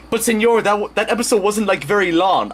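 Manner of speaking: high-pitched pleading sidekick; protesting cameraman. Acted. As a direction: object timidly in a high cartoon voice. Cameraman José objecting to the star.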